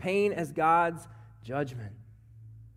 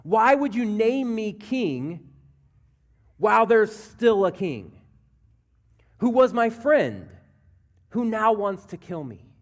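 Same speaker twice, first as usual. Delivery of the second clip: crying out to God; 3 semitones higher, 4 dB louder than usual. Acted. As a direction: demand an answer from God, imitating a lament. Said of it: "He cries out to God".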